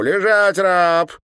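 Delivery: put-on high, loud girlish command. A narrator's reading. Girl ordering the governor to undress, high and commanding. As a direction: bark the order like a little tyrant.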